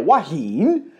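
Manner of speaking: "Hua Hin" as "wa-heen", ending on a rise; "Hua Hin" with "heen" lifted; local-style pronunciation. Shown as a demonstration. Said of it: "That's how they say it".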